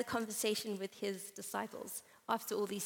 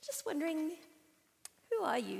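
higher-pitched, hesitant enquiry; tentative approach; 6 semitones higher than usual. Acted. Bold fan approaching a possible celebrity, tentative. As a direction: ask shyly, pitched up a little.

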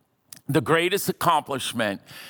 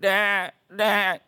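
mock fake cry; 4 semitones higher than usual. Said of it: "it was a fake cry".

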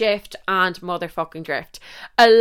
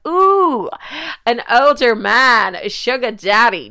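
mock excited coo; 4 semitones higher, 6 dB louder than usual. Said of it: "So I was like".

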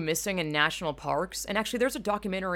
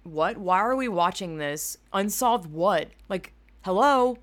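incredulous mock reaction; 3 dB louder than usual. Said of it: "Some of the episodes are like".

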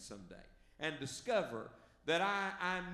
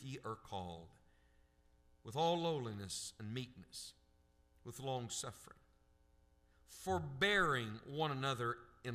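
deliberate reading with long pauses between phrases; slow scripture reading. Real, not acted. Preacher reading Ephesians so the church can think on it, slow reading. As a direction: read it out slowly, leaning on key words. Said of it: "I'm gonna read it slowly".

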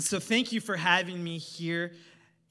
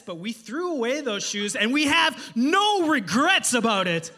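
slow, louder, smug clerk rising to the end; a hammed-up front desk clerk; hotel clerk voice; 5 dB louder, slower than usual. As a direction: lay down the verdict, unrepentant. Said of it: "hotel staff voiced".

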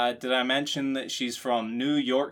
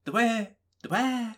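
higher, louder doddering confusion; mock confused old lady; 5 semitones higher, 5 dB louder than usual. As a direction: stumble over the foreign word. Confused person asking for Wi-Fi.

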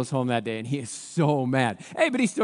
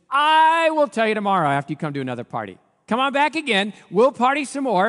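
playful invitation; 6 semitones higher, 6 dB louder than usual. Acted. Esther teases king to party again.

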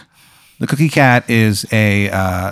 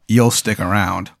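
ominous insistence; 2 semitones lower, 3 dB quieter than usual. Acted. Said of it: "And they go".

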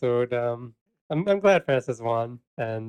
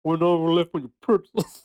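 put-on failed New York accent; 3 semitones higher than usual. Host fails at a TV presenter's New York accent, half-laughing. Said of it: "I can't do it".

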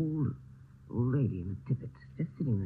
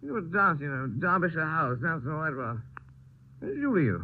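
put-on drunk. Drunk man rambling at night.

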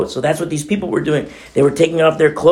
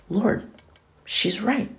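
quiet admission; 5 semitones higher, 8 dB quieter, slower than usual. Pretend. Quiet confessing prayer.

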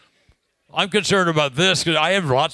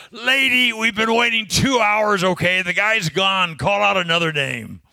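mildly raised, higher-pitched mock yell; retold yell; 4 semitones higher than usual. Fed-up passenger calls out to the gate agent, mock yell. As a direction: imitate an impatient complaint, starting high and easing down. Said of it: "he yells out".

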